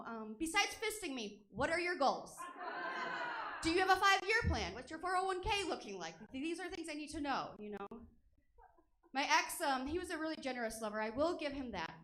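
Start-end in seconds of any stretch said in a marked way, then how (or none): 0.1-7.9 lightly acted first-date interview, mostly raised pitch; awkward small talk. Sexting partner quizzing a date on goals, lightly awkward politeness. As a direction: probe politely, putting on mild earnestness. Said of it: "it's kind of awkward to do it".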